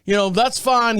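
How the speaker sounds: a husband waving off his wife's question, mock dismissive. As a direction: shrug it off without turning round. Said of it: "he said".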